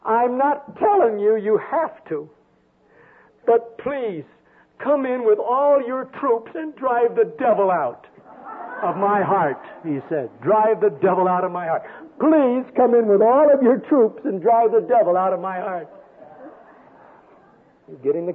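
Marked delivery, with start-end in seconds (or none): 0.0-9.6 put-on high, slow southern child's prayer; drawn-out, higher southern kid voice; little southern boy praying. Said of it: "He's a little southern boy". 10.4-15.9 lightly imitated southern child's plea; mock southern boy's prayer, building higher on "Please"; a hint of a pleading southern kid; little southern boy praying. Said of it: "He's a little southern boy".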